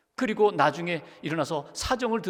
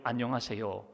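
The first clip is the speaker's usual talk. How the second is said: quiet, lower-pitched greeting; 5 semitones lower, 7 dB quieter than usual. Retold or imitated. Daughter greets her long-lost mother in a low voice. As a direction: say it low and soft, as the daughter would. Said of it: "낮은 목소리로".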